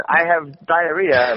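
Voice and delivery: mock British accent, stretched slowly; British guy. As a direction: imitate a British guy, drawn out. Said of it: "when you hear a British guy going".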